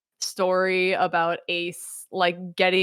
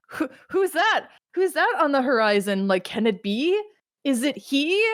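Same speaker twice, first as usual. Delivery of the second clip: dramatic mock wonder; 5 semitones higher than usual.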